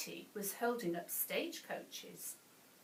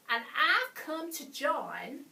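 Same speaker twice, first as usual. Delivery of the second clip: higher, louder bandit brag; boastful; 6 semitones higher, 7 dB louder than usual. A narrator's reading. Bert asking to join the bandits, bragging. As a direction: announce it boldly, with bandit swagger. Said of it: "Bert bragged".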